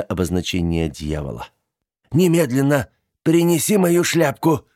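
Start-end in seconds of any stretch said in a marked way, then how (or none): 2.1-4.7 high, loud command; bossy order. A narrator's reading. Aunt ordering niece to fetch her hat, bossy. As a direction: demand it now.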